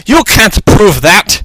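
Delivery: slow, high, put-on Russian accent. A narrator's reading. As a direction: challenge him slowly in mock Russian tones. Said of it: "in her Russian accent".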